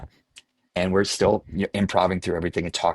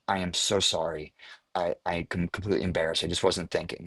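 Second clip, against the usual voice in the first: softer, embarrassed apology fading away; sheepish apology; 3 semitones lower, 6 dB quieter than usual. Retold or imitated. Actor apologizing to the director, quiet and sheepish. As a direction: mumble it like a guilty kid.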